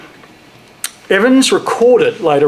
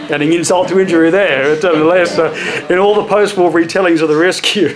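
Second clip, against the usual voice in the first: laughing. Real, not acted. Still amused at misnaming.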